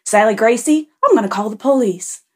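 lightly hammed-up affronted tattling; upset man. Teller mimics man threatening a girl with police, upset. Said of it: "he starts getting upset".

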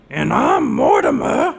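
ventriloquist talk, lips still; lips barely moving. Shown as a demonstration. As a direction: speak without moving the lips. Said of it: "your lips didn't seem to move that much".

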